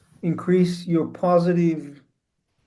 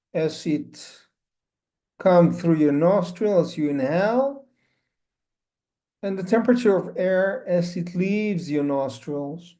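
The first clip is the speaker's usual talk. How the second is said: unhurried instructions with long pauses; spacious, measured meditation guidance; guided meditation. Acted. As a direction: guide listeners gently into stillness, phrase by phrase.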